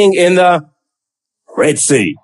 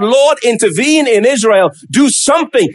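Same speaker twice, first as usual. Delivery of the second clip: mildly raised plea to God; pleading; 2 semitones higher than usual. Acted. Prophet begging God to act for Israel, pleading. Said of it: "he's pleading to God".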